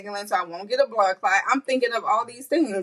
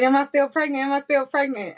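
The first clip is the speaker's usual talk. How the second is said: anxious question; 6 semitones higher than usual. Retold or imitated. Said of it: "I'm just finding the seizures like".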